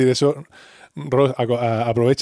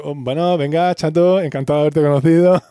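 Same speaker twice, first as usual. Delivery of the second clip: nervous farewell; 4 semitones higher, 5 dB louder than usual. Retold or imitated. Chandler nervously trying to leave.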